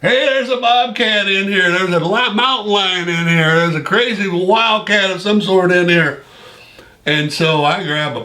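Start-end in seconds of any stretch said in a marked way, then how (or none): 0.0-6.2 higher-pitched mock alarm, raised but not shouted; imitating a buddy yelling about a wildcat; half-hearted replay of a frightened scream; retold panicked yell. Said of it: "I hear old Block screaming".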